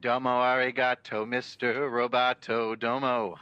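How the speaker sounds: sing-say it like a robot. Pretend. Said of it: "I'll speak in a language that you can understand".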